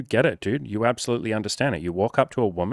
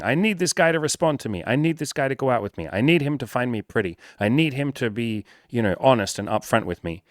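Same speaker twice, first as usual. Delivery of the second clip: higher mock needy woman, pleading; 3 semitones higher than usual. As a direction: play a clingy woman wanting a reply. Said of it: "And women do the same thing".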